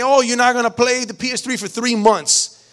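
acting out a parent's rash punishment; angry parent. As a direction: lay down the penalty in mild anger. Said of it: "you did it all out of anger".

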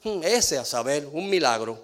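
mildly skeptical "hmm" quote; doubtful dismissal. Retold or imitated. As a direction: imitate someone writing a person off. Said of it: "ha dicho así de alguien".

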